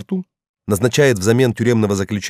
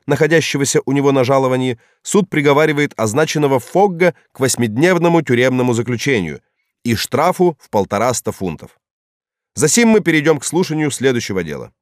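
raised formal court verdict; stern judge; 5 semitones higher than usual. Acted. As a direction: read the sentence from the bench. Judge reads second sentence. (голос судьи, зачитывающего приговор)

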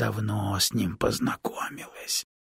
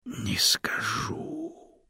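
teasing whisper, higher; whispered refusal; 14 semitones higher, 4 dB quieter, much slower than usual. A narrator's reading. Snake slyly refusing the stone, whispered tease. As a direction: hush it slyly.

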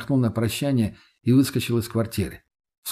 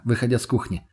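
ordinary delivery

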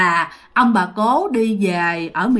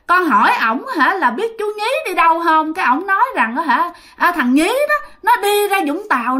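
put-on naive child voice; 4 semitones higher than usual. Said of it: "giọng của chú ngô nghê như một đứa con nít".

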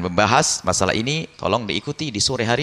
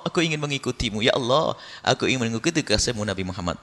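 humble confession; 3 semitones higher, 3 dB quieter than usual. Pretend.

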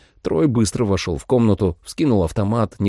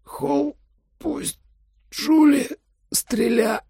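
hoarse croak; much slower than usual. A narrator's reading. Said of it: "прохрипел своё не последнее".

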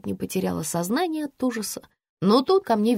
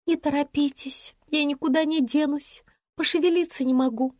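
brisk report; 7 semitones higher than usual. A narrator's reading. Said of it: "бойко отрапортовала я".

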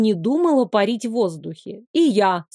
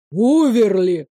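a teacher at the end of his rope; exasperated professor; 4 dB louder, slower than usual. Acted. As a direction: groan her name in exasperation. Professor clutches his head.

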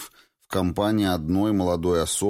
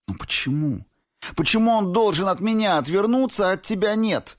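much higher and louder, passionate outcry; passionate cry; 4 dB louder than usual. A narrator's reading. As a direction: Valentina demanding why only she is judged, passionate cry. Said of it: "страстно воскликнула она".

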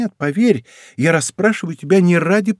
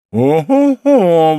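slow, drawn-out indignant "Ого-го", louder; 3 semitones higher, 5 dB louder, much slower than usual. A narrator's reading. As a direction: stretch it out, outraged. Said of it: "возмутилась Монтале". (возмущённо, протяжно и громче)

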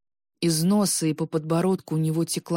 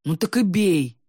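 sharp exclamation, louder; louder cry daring his brother to strike; exclaiming; 3 semitones higher, 5 dB louder than usual. Acted. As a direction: fling it out as a challenge. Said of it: "воскликнул Клим".

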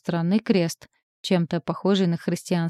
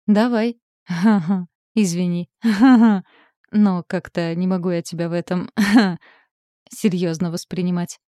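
talking through giggles; can't stop chuckling; laughing; 4 dB louder than usual. Acted. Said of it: "Слегка посмеиваясь".

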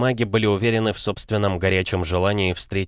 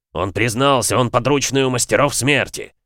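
booming; 5 semitones higher, 4 dB louder than usual. Acted. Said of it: "загремел рыцарь".

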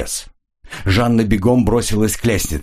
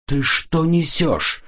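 very slow, high, alarmed cry; startled and worried, pushing back; встревоженно; alarmed exclamation; 10 semitones higher, much slower than usual. A narrator's reading. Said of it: "встревоженно воскликнул Ренли".

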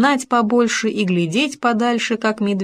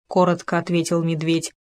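ordinary delivery, nothing marked

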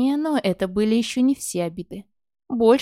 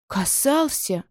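a gasped question; ахнув; 3 semitones higher, much slower than usual. A narrator's reading. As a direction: gasp the word in shock. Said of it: "ахнула я". (жена ахает от изумления)

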